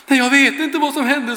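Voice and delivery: astonished laugh. Retold or imitated. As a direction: giggle it out, amazed. Old woman startled mid-prayer.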